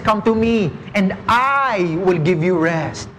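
"I" pressed in "Come to me and I will give you rest"; stress on I. Shown as a demonstration. Preacher quoting Jesus to the church, stress on I. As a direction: hit the word "I" so the promise rests on Him. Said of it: "The emphasis is on Him".

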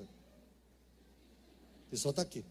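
slow, breathless whisper under the breath. Retold or imitated. Child whispering to his mother in front of the host. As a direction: hiss it so the host can't hear. Child signalling silently at relative's house.

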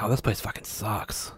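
a snooty tourist complaining under their breath; mock British tourist. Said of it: "British people come here and they're like".

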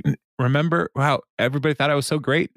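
whiny Jam. Retold or imitated. Jam voiced in retelling.

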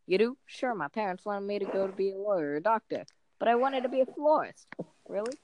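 New York comedian voicing both sides; put-on New York comic accent; Jerry Seinfeld accent. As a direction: play the dialogue in stand-up New York tones. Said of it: "your current Jerry Seinfeld accent".

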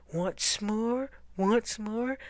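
questioning, muffled repeated call. A narrator's reading. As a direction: keep calling as if through a sleeping bag. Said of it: "his muffled voice calling".

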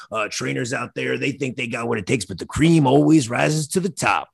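bursts in with a big Oh yeah, brother, then a lighter wrestling-promo swagger; Macho Man Randy Savage. Retold or imitated.

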